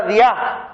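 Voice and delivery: diá with the stress on the final A. Shown as a demonstration. Preacher teaching a Greek word, diá stressed on the A. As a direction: say diá as di-AH, not DÍ-a. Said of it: "pero con acento en la A".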